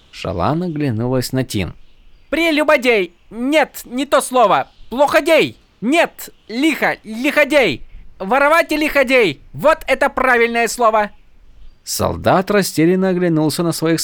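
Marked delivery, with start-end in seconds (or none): 2.3-11.1 mock Horneater accent. A narrator's reading. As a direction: bluster in a fake accent. Fake Horneater fumbling words.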